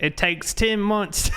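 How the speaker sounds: slow Southern redneck drawl; redneck accent. Shown as a demonstration. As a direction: drag out ten in a redneck accent. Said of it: "a redneck accent can be hard".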